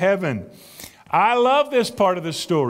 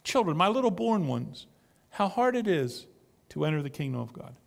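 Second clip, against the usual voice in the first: softly, a lightly voiced tender Jesus; gently, like comforting little children; a hint of a father's tenderness; 6 dB quieter than usual. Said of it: "He says it tenderly".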